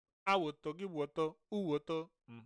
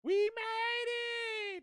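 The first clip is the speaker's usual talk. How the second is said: very high, long-held staged cheer; put-on victory shriek, drawn out slowly; celebratory squeal; much slower than usual. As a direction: hold the squealed cheer for effect. Redoes cheer for clapping effect.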